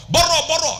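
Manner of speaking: high, loud-ish repeated shooing; imitated angry Arab. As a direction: shoo the woman off crossly. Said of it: "Kadang-kadang dia marah".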